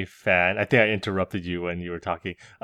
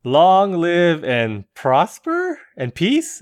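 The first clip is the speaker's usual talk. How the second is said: mock Vulcan salute; 8 semitones higher, 5 dB louder, much slower than usual. Mock Star Trek salute.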